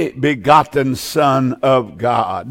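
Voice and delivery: begotten Son of God, slow and low; emphasis on Son of God. Shown as a demonstration. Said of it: "Notice how he emphasizes Son of God".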